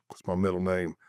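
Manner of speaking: low, soft muttering to yourself; stressed self-talk. Retold or imitated. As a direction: ask yourself under your breath. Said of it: "I was going".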